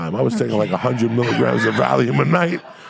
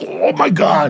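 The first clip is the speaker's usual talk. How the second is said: mock-appalled, raised voice; shocked onlookers; 5 semitones higher, 4 dB louder, slower than usual. Friends seeing him half-dressed, mock shock. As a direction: exclaim it like a disgusted crowd.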